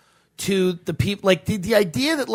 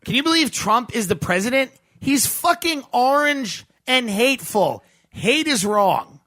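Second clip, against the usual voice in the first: mock outrage; 3 semitones higher than usual. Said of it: "The ire dripping off of your voice".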